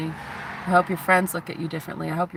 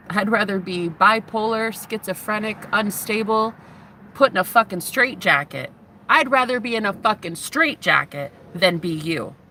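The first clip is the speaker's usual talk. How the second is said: a heated, raised-voice vow of defiance; defiant rant; 3 semitones higher than usual. Real, not acted. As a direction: spit it out like you mean it. Defiant rant, louder and higher.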